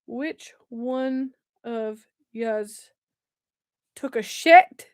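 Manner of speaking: very slow, deliberate Scottish quote; Scottish accent. Acted. Quoting an old Vine, slow Scottish accent. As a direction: spell it out slowly in a Scottish accent. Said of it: "I could quote the entire thing".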